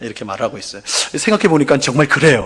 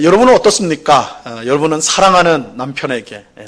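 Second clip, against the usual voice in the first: usual speaking voice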